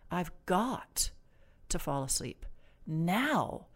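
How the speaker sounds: demanding, rigid drill sergeant command. Shown as a demonstration. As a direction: bark it like an army sergeant. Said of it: "I sound like the Army drill sergeant".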